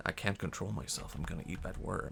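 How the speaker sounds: furtive craving. Retold or imitated. Bird confessing craving to itself.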